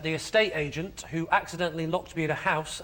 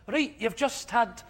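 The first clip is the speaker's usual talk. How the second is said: put-on Scottish accent; 4 semitones higher than usual. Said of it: "is that a good accent?".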